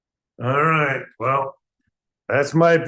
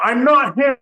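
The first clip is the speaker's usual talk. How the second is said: irritated blurt; 2 semitones higher, 4 dB louder than usual. Acted. Another angry interruption.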